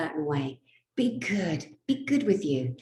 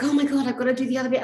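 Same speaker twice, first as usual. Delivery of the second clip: mock alarm; 6 semitones higher, 5 dB louder, much faster than usual. Retells injector's hurried alarmed reply.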